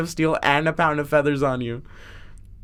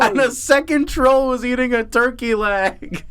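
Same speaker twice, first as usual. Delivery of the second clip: amused outburst; 6 semitones higher than usual. Real, not acted. Teller pushes on after cracking up.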